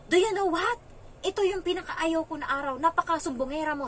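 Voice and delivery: high, indignant child's outburst, mimicked; imitated angry child. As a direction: act out a kid accusing a tattletale. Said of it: "Tapos nagalit yung bata". (ginagayang galit na bata)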